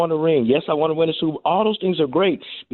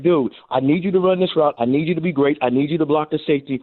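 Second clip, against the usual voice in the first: firm, direct coaching orders; demanding coach; 3 semitones higher than usual. Retold or imitated. Coach showing how he really talks to players, firm and direct. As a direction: tell him straight what you need. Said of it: "No, I'm like".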